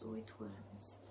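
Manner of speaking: slow, soft fading echo; soft slow echo in the mind. Retold or imitated. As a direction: let it die away slowly. Repeated in her head.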